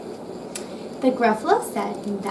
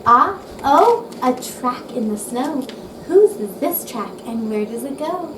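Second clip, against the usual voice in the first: loud, eager gasp of discovery; excited discovery; 3 dB louder than usual. Acted. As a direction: cry out at the track. Child spotting tracks in snow.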